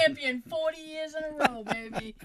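high, very loud triumphant crowing; boastful mock champion. Co-host crowing over ghosts' hide-and-seek wins, loudly boastful.

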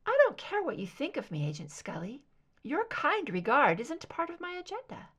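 a lightly voiced aloof captor, name nearly whispered; cold soprano captor. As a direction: brush her off lightly and high. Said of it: "higher pitched ... soft soprano".

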